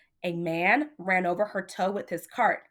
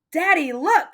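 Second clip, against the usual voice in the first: high, louder eager call to daddy; excited kid; 8 semitones higher, 7 dB louder than usual. Acted. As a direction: show off the cart proudly. Child excitedly showing her cart.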